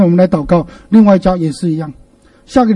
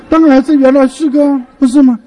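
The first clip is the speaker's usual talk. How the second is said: of course, emphatic and raised; emphatic answer; 6 semitones higher than usual. Real, not acted. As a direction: drive the answer home. Answering his own quiz.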